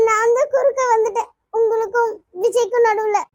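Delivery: guilty confession through tears; tearful self-blame. Acted. Apologizing for coming between a couple, tearful self-blame. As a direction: cry a little while blaming yourself. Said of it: "எதுக்கு அழுதுகிட்டு இருக்க".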